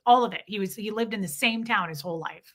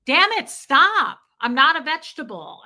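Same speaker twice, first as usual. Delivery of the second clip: gruff protest; 5 semitones higher, 7 dB louder than usual. Retold or imitated. Old husband protesting to his wife, mock angry. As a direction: bark it out like a proud old man. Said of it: "And he'd go".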